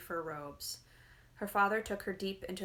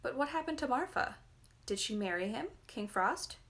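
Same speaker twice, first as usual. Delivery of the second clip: put-on higher, plaintive child's question; 6 semitones higher than usual. A narrator's reading. Young listener pleading to know Marfa's fate, plaintive. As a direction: ask it like a disappointed little girl. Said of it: "Olga spoke up plaintively".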